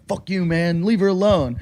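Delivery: understated mock standing-up-to-him; imagined confrontation. Storyteller voices what Jim expects Jason to say, understated confrontation. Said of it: "Jim thinks Jason's gonna go".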